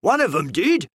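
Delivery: a hint of a grumbling shopman; heated shopman. A narrator's reading. Fruiterer complaining to the detective, mildly heated. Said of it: "said the heated shopman".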